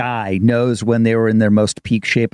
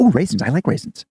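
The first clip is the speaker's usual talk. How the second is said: a saxophonist bubbling over about small things, pitch jumping much higher; overjoyed saxophonist impression with much higher squeals; excited saxophonist; 5 semitones higher, faster than usual. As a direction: gush about raisins and sunshine like everything thrills you. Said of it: "He's excited about everything".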